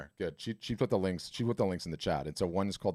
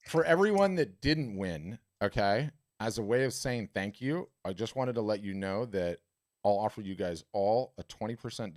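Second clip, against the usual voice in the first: put-on English accent. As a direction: announce the discount in an English accent. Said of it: "I'm switching gears to my English accent here".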